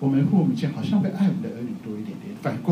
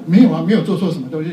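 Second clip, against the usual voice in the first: retold self-reassurance; 5 dB louder, faster than usual. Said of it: "发现说".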